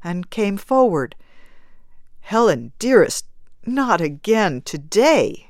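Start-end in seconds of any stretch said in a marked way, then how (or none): 2.2-5.5 begging. Acted. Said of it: "he begged".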